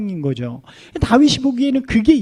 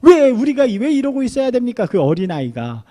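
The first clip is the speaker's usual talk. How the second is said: indignant outcry; 4 semitones higher than usual. Retold or imitated. David protesting among the soldiers.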